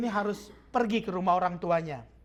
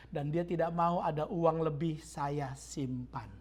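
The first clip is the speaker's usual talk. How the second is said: tearful wife; 4 semitones lower, 7 dB quieter, slower than usual. Retold or imitated. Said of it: "dia menangis".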